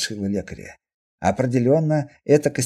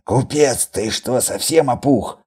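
mildly indignant, incredulous challenge; indignant hiss; 4 dB louder, slower than usual. Acted. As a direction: rebuke him with restrained outrage. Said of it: "негодующе прошипел лекарь". (негодующе, с лёгким нажимом)

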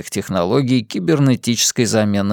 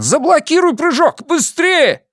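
higher, louder command, pressing hard; urgent shouted order; 3 dB louder than usual. A narrator's reading. Captain yelling at the crew to block the jump, urgent. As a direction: yell the order before it's too late.

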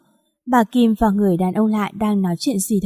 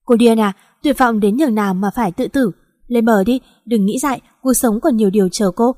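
shouting. Acted. Stranger pulls her from sea.

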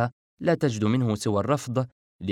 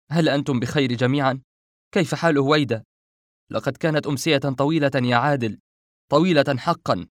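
louder, higher-pitched anxious asking; eager concern; 4 semitones higher, 5 dB louder than usual. Acted. Refaat checking that Adel and Howaida are safe, eager. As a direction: pour out relief and worry with a lifted voice. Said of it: "وشرع يتساءل في لافة".

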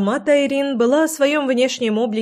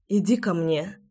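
inviting call; 4 dB quieter than usual. A narrator's reading. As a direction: call him in softly. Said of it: "позвала она".

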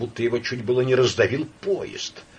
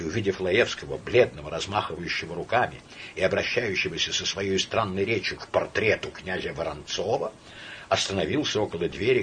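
usual speaking voice

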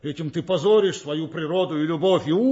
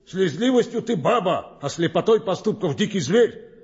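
mocking laugh; 5 semitones higher, 3 dB louder than usual. Friar mocks Romeo.

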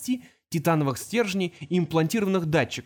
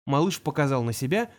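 ordinary delivery

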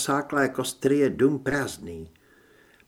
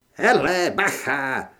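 shouted warning; slower than usual. A narrator's reading. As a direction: call out a quick alarm to a companion. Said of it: "vykřikl Aino". (varovný výkřik)

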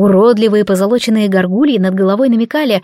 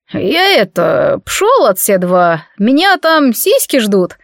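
slow slurred tipsy mumble; drunk slurring; slower than usual. Acted. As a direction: stumble over words, drunk. Drunk aristocrat leaves. (пьяное бормотание)

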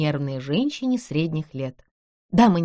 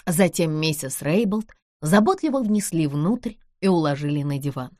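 ordinary delivery

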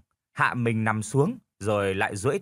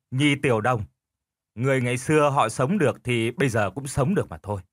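stubborn husband, dismissive. Acted. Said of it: "Lão cãi cùn".

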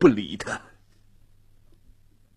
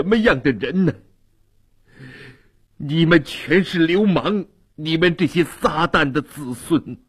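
frantic outburst; 5 semitones higher than usual. Acted. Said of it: "神情有点近乎发狂".

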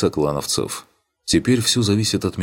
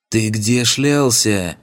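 slow, loud, higher angry hiss; hissing angrily; 5 semitones higher, 4 dB louder, much slower than usual. A narrator's reading. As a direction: hiss it out in fury, slowly. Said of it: "прошипела демонесса".

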